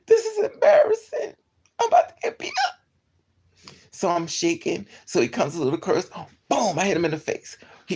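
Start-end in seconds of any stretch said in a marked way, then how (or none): 0.1-3.7 very high, louder panicked whine; high scared wail. Retold or imitated. Embarrassed, scared before fight.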